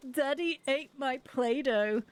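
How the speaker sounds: put-on slow, drawn-out child's complaint; upset child. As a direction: imitate a little one's mild wail. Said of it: "He's really upset".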